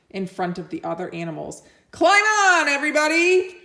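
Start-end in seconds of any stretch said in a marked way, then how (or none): 1.9-3.6 high, loud call to the whole barnyard; excited shout. Acted. Duck shouting to the animals, loud and eager. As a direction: Duck yells for everyone to hop on. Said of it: "shouted Duck".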